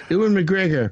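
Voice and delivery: put-on name said in a playful Scottish accent. Host saying the actor's name on a Star Wars podcast, playful Scottish accent. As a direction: roll out Ewan McGregor with a Scottish lilt. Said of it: "so why are you going Scottish?".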